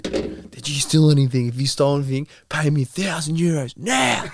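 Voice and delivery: retold screaming. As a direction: imitate a furious brother hammering out demands. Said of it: "screaming at me".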